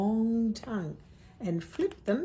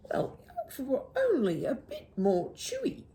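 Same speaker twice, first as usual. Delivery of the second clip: sighing emu; 6 semitones higher, faster than usual. Acted. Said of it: "she sighed".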